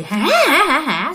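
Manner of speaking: mimicked "ha ha ha" laugh; spooky mock laughter; imitated eerie laugh. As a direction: imitate a ghostly woman laughing. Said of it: "tự nhiên nghe tiếng cười".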